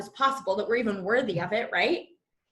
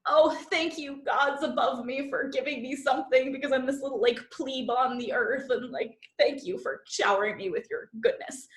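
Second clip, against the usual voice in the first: mock humble, bowing thanks; groveling thanks. Shown as a demonstration. Coach mocks groveling gratitude to her audience, humble. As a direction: grovel before the gods above. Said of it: "Not, like, grateful, like a groveling".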